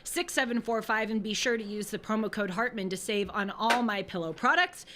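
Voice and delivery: upbeat announcer ad read; lightly peppy ad voice. Acted. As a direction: sell it like a radio spot. Reads ad copy on air.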